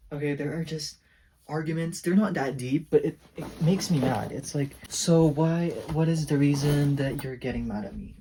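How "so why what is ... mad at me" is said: exasperated retort. Retold or imitated. Retold argument with parent.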